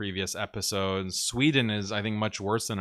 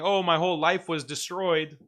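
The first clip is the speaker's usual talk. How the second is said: mock victim wail; 7 semitones higher, 3 dB louder than usual. Mocking a tearful victim.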